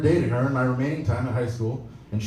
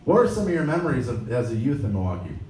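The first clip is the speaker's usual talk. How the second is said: mock dopey self; faster than usual. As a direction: blurt it out like a nervous fan. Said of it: "I really sounded this stupid".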